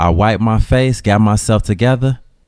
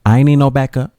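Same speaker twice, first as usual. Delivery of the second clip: mama voice; 4 semitones higher, faster than usual. Retold or imitated.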